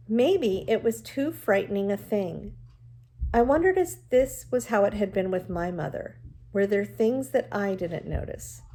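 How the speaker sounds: reading a novel aloud to the class, even and clear; steady read-aloud storytelling voice; story narration. A narrator's reading. Teacher reads novel aloud to class.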